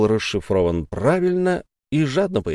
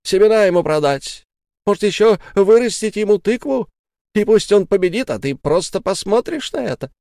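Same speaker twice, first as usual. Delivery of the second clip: angry scolding; 10 semitones higher, 4 dB louder than usual. Acted. Sara scolds husband.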